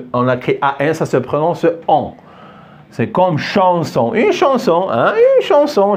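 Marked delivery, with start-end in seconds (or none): 4.1-6.0 mot modèle. Shown as a demonstration. Exemple du son an.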